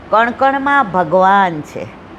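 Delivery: x0.6 slow, weighted કણમાં; preacher driving home the point; slow emphatic refrain. Shown as a demonstration. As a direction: lean slowly on કણ કણમાં ભગવાન છે. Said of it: "emphatic sermon refrain".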